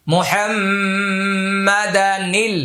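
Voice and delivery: slow, careful মুহাম্মাদা নীল with the nun carried over; reading rule shown. Shown as a demonstration. Teacher shows students the correct reading, slow and careful. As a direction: draw out মুহাম্মাদা নীল, linking the n to il. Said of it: "এইভাবে পড়তে হবে".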